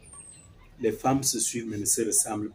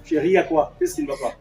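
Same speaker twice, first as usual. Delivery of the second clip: much higher worried voice; alarmed question; 14 semitones higher, 4 dB louder, faster than usual. Acted. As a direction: rush in asking what happened. Father alarmed, asks what's wrong. (question inquiète, voix aiguë)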